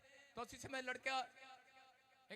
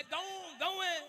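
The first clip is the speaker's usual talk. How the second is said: higher, shouted mock cow answer; a girl taught by her mother to answer like a cow, shouted; 6 semitones higher, 4 dB louder, slower than usual. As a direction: bleat it out like a meek cow.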